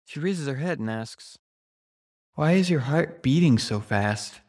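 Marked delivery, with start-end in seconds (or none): 2.3-4.4 loud. A narrator's reading. Girlfriend asks in bed.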